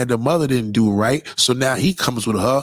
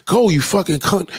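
a touch higher, mock yell at a driver; mimicking friend's road rage; 5 semitones higher than usual. Imitating a friend cursing other drivers, mild mock yell. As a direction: imitate a friend swearing from the passenger seat. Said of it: "In the passenger seat going off".

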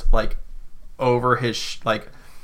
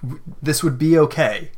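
higher, pleading character voice; lightly voiced Zofia; 5 semitones higher than usual. Zofia calming the kicking captive, lightly raised voice. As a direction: raise the pitch a little to calm someone down. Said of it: "Zofia goes".

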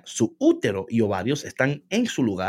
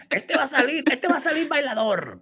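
high, giggly playful voice; high laughing tease; 11 semitones higher than usual. Real, not acted. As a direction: joke it through laughter, pitched way up. Joking baby will dance.

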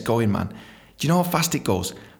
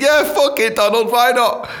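high, gung-ho reply; mock eager agreement; 8 semitones higher, 4 dB louder than usual. Imagined listener taking Trump's bleach advice, mock eager. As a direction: jump at it, pitched high.

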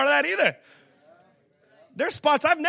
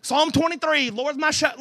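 mock Southern preacher reciting scripture; folksy Southern Bible quote; Southern accent; 2 semitones higher than usual. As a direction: put on a Southern churchy voice. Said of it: "this is a Southern voice".

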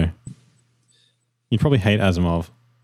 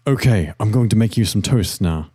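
Bear Grylls impression. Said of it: "Bear Grylls guy".

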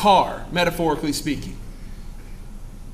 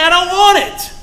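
flat no, pitched up; higher, louder refusal; 10 semitones higher, 5 dB louder than usual. Retold or imitated. Customer leaving the store, higher and louder refusal. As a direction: blurt the refusal up high and loud. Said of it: "and say".

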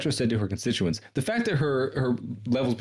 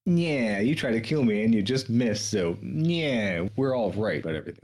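smarmy mock quote; slower than usual. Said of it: "it's so smarmy".

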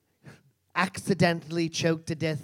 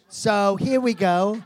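sing-song here we go; 4 semitones higher, 5 dB louder, slower than usual. Shown as a demonstration. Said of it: "repeated catchphrase takes".

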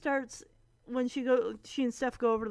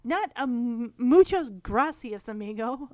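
imitating Stephanie's rant. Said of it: "Stephanie starts in with".

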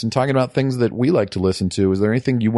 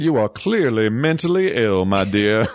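put-on Southern accent. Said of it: "you sound just like me".

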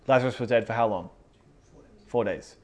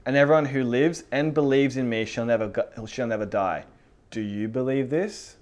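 commanding proclamation; 4 dB louder than usual. Acted. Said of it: "he speaks like this".

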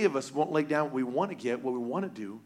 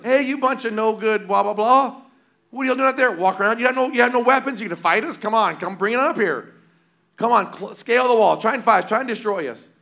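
taunting enemy soldiers, loud and higher; mocking yell; 5 semitones higher, 6 dB louder than usual. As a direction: jeer across the field at the marching army. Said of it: "yelling at them".

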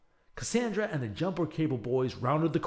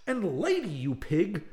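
higher, louder snappy comeback; sharp retort; 6 semitones higher, 4 dB louder than usual. Acted. Cassandra retorting to the villain Waverly, defiant. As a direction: fire the insult right back. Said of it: "Cassandra shot back".

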